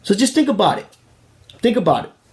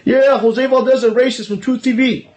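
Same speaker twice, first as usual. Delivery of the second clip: words spoken through laughter; laughing while talking; 5 semitones higher than usual. Real, not acted. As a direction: keep laughing as you say it. Laughing after his parody.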